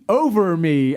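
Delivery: lightly imitated goalkeeper's call; Marcus Hahnemann. Host retelling keeper refusing to dive, lightly mimicked call. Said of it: "all you'd hear him say is".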